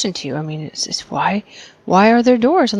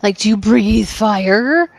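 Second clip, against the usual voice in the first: conspiratorial whisper; slower than usual. Acted. Player character interrogating the dragon.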